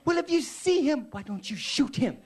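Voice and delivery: loud holler that slows at the end; high and loud, then coming down in pitch; exasperated shouting back. Retold or imitated. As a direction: shout it across the street, spelling out the obvious. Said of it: "hears him from across the street".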